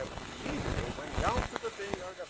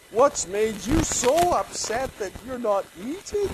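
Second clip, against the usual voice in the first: coaxing wife; 7 semitones higher, 8 dB louder, slower than usual. Acted. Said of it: "his wife Jezebel asked him".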